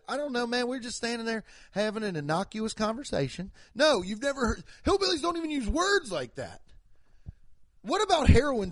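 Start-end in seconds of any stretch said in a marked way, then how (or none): 0.1-3.5 higher mock hillbilly voice; lightly caricatured hillbilly accent. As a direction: chat in a put-on hillbilly twang. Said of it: "have you ever heard a hillbilly said".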